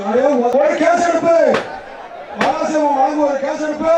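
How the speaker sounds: ordinary delivery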